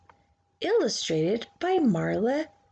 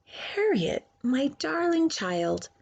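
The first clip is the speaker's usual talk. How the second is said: mother's sweet voice; 4 semitones higher than usual. Acted. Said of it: "so instead she said".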